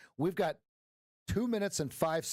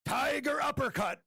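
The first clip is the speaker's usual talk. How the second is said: mock battle cry; 10 semitones higher than usual. Imagines wife punching him awake.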